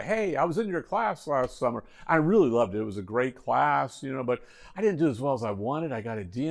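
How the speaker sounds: lightly chatty mock flattery of a professor; hypothetical student making friendly small talk; mild schmoozing. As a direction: imitate a student buttering up the teacher. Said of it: "no attempt to schmooze or anything".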